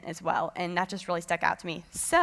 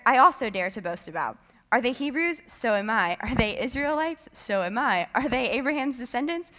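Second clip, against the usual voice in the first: lightly sassy reading of boasting; a little sassy; 2 semitones higher, 3 dB louder than usual. Acted. Reading Paul's boasting to the group, a little sassy. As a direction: toss out each comeback with playful boast. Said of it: "Paul gets kinda a little, little sassy".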